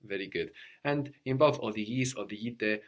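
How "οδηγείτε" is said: οδηγείτε with the γάμα so soft it nearly vanishes; soft Greek gamma before E. Shown as a demonstration. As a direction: say οδηγείτε as o-dhi-i-te, γάμα barely there. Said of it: "we have the γάμα very soft there".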